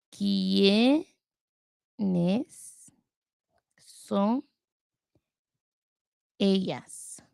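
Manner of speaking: very slow, long pauses between quiénes, son, ellas; word by word. Real, not acted. Learner writing the phrase out to work on it, word by word. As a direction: draw out quiénes, then son, then ellas, each apart.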